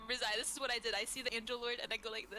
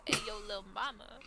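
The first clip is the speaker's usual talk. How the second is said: flirty street greeting. Acted. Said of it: "I go".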